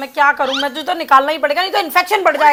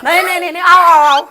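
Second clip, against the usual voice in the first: teasing laughing chase; 3 semitones higher than usual. Acted. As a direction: chase her down in fun. Mother chases child with injection.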